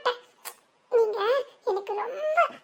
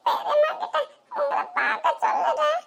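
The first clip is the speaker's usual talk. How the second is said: put-on child comforting; 4 semitones higher than usual. Child comforting her crying uncle. (அழும் பெரியப்பாவை சிரிப்புடன் மென்மையாக தேற்றும் குழந்தை)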